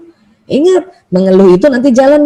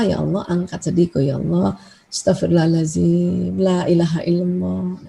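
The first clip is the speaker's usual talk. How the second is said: quiet prayer; 4 semitones lower, 6 dB quieter than usual. Shown as a demonstration. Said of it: "Makanya kita doa".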